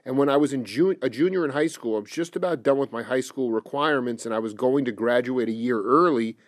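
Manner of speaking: quietly reciting someone's account from the page; reading aloud. Real, not acted. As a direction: read out an interview quote evenly and low. Reads an interview quote aloud.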